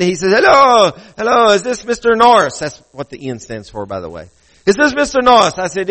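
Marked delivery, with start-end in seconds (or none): 0.3-2.6 imitated caller in a higher-pitched Asian-sounding accent; mock Asian-sounding accent, pitched up. Phone caller asking for the preacher, imitated Asian-sounding accent. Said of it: "has an Asian-sounding accent". 4.7-5.5 imitated caller in a higher-pitched Asian-sounding accent; mock Asian-sounding accent, pitched up. Phone caller asking for the preacher, imitated Asian-sounding accent. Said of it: "has an Asian-sounding accent".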